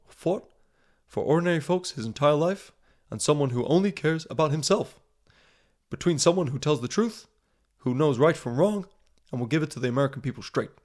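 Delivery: lightly imitated American presidential accent; American political speech accent, lightly put on; Barack Obama. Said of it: "I'll try and do it in his accent".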